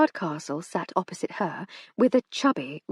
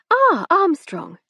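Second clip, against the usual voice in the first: lady of the house; 10 semitones higher, 7 dB louder, much slower than usual. A narrator's reading. Lady greets her maid.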